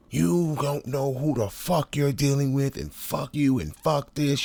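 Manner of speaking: high, mock enraged cursing; hammed-up fury in her high voice; imitating furious coworker. Coworker losing it at him, mock furious cursing. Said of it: "She lost her shit".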